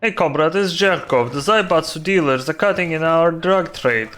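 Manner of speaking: put-on Russian accent; brief a comrade as a Russian gangster, accented; Jerkov. Gangster explaining the drug trade job, Russian accent. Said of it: "have to cosplay Russian accent".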